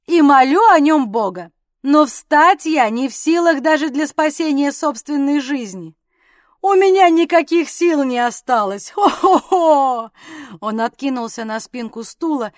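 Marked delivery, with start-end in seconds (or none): 0.1-10.1 hammed-up helpless mirth; helpless with laughter. A narrator's reading. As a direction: plead helplessness, then break into ho-ho-ho. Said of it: "и застонал, держась за бока".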